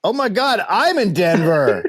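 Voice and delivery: loud high spluttering laugh; spit take. Acted. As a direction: burst out like you just spat your drink. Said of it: "should I do a spit take".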